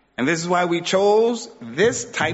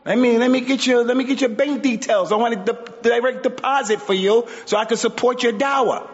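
mock eager opportunist; 6 semitones higher than usual. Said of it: "look at that sister and say".

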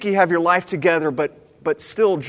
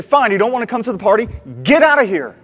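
loud, high dismissal of the son; an offended patriarch driving his son out; angry father; 4 semitones higher, 5 dB louder, faster than usual. Retold or imitated. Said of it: "the father to slap his son".

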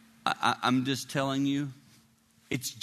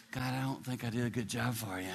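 soft, low confession to God; humble confession; 4 semitones lower, 7 dB quieter than usual. Retold or imitated. Preacher praying to God after walking offstage, humble. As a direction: quietly own up, voice dropped.

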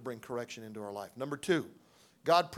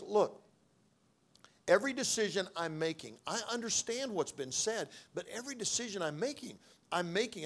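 defiant attitude; 4 semitones higher than usual. Retold or imitated. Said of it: "I had this attitude".

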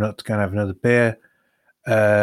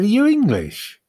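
a hint of an American accent, higher; attempted American accent; 8 semitones higher, slower than usual. American driver questions the lost English fan, lightly put-on American accent. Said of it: "I'm not doing the accent".

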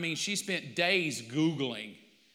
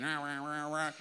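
mock rant; 3 semitones lower, 6 dB quieter than usual. Mocking his ranting texts.

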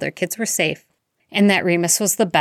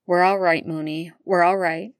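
murmuring. Acted. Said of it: "murmuring in his ear".

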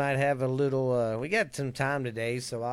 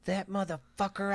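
high, softer put-on voice of a young nephew; mock the nephew, higher and lighter; imitating nephew Justin; 7 semitones higher, 6 dB quieter than usual. Host voicing his nephew finding the podcast, higher and lighter. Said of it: "he's gonna blame you for it".

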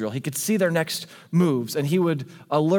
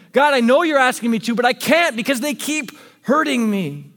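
exasperated complaint; 4 dB louder than usual. Pretend. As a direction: vent it, growing more desperate. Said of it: "You go".

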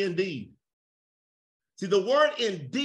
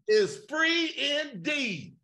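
emphatic preached shout; 5 semitones higher, much slower than usual. Real, not acted. Preacher answers completed verse.

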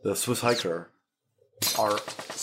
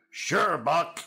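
higher, put-on little robot voice; Buck Rogers robot; 6 semitones higher than usual. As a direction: answer like a cartoon robot sidekick. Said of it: "the robot would talk like this".

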